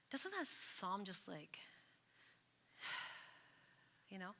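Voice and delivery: breathless unvoiced whisper trailing to a sigh; lost for words, whisper it; hushed wonder with a sigh; awed whisper. Real, not acted. Awed after reading the psalm.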